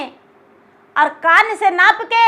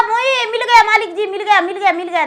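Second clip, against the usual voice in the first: higher, eager shouts of मिल गया; 5 semitones higher than usual. Acted. Servant excitedly shows his master the tiny grave. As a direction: call the master over, thrilled.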